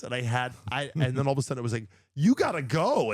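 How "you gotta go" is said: high, loud retold stage call; loud, urgent mimicked send-off; urgent cue. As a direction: call out a sudden hurry-up, pitched high.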